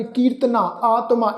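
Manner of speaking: ਕੀਰਤਨਾ and ਆਤਮਾ with long final "aa"; kanna tone. Shown as a demonstration. Teacher lists modern readings, long "aa" on ਕੀਰਤਨਾ, ਆਤਮਾ. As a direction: end ਕੀਰਤਨਾ, ਆਤਮਾ on an open "aa". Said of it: "ਉਹ ਕੰਨੇ ਦੀ tone ਵਿੱਚ".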